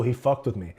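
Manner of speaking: ordinary delivery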